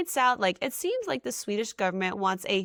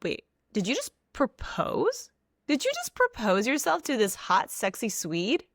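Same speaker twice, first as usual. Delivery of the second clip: mock disbelief. Reacting to a sudden proposal to the Swede, incredulous. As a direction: play up the stunned double take.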